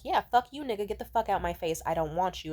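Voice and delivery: loud, emphatic acted rejection; angry brush-off. Woman rejecting a pushy man, angry brush-off. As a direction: push him away with a loud retort.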